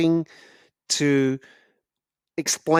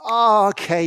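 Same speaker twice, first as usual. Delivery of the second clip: drawn-out, higher "oh" of recognition; dawning realization; 8 semitones higher, 4 dB louder than usual. Acted. Listener told the speaker is from Ireland, sudden realization. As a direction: let the accent suddenly make sense. Acted realization on hearing the origin.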